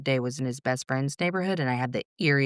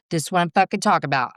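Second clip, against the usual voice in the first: fast, higher, louder rude retort; rude outburst; 4 semitones higher, 5 dB louder, much faster than usual. Retold or imitated. Mother retelling her outburst at the household, rude. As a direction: snap rudely, in a quick burst. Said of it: "I was so rude".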